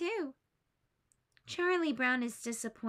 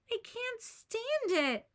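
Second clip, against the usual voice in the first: sighing; 11 semitones higher, slower than usual. Acted. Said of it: "Charlie Brown sighs".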